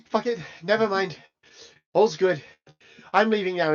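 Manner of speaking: quiet, expressionless dismissal; deadpan. Acted. Turning back to Genevieve to leave, deadpan. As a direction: drop it softly with no expression. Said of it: "still deadpan".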